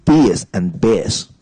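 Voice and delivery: Beers and bears, slow, each vowel set apart; contrasting vowels. Shown as a demonstration. Co-host names the problem words, Beers and bears contrasted. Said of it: "what is the problem here?".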